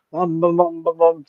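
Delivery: mock entrance drumbeat; heavy footsteps imitation. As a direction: imitate a big person lumbering in. Mimics big woman's heavy arrival.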